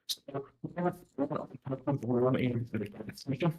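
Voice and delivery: garbled, muffled as if underwater; bad connection, words drowning out. Real, not acted. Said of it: "It sounds like he's underwater".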